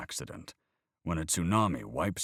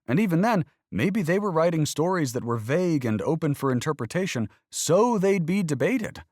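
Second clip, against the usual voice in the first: put-on higher, louder earnest boy questioning faith; young boy arguing about God, higher and louder; voiced young boy; 10 semitones higher, 9 dB louder than usual. A narrator's reading. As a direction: play the boy pressing his point.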